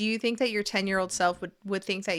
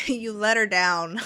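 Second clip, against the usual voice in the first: laughing; 6 dB louder than usual. Real, not acted. Laughs while judging.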